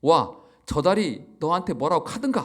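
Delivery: second Gyeongsang attempt, "카든가" lifted at the end; a still-clumsy Gyeongsang accent, ending on a rise; Gyeongsang dialect retry. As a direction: redo "와, 저 달이 너한테 뭐라고 카든가" in a Gyeongsang lilt. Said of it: "경상도가 아니라 제가 죄송합니다".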